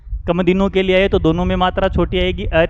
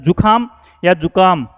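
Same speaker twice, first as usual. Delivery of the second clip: जुखाम या जुकाम read slowly to compare; जुखाम with kh against जुकाम with plain k; slow contrast. Shown as a demonstration. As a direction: lay out जुखाम and जुकाम one by one. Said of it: "शब्द होता है जुकाम".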